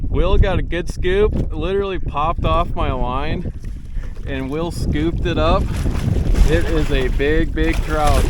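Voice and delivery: loud, thrilled play-by-play; buzzing over a big catch; fighting a fish. Real, not acted. Landing a big trout.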